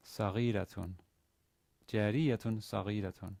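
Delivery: "saghiratun" with the stress on "ghi"; "saghiratun" read carefully, third-to-last syllable stressed; careful model reading. Shown as a demonstration. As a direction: model "Jariyatun saghiratun" clearly for learners. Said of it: "is to be read".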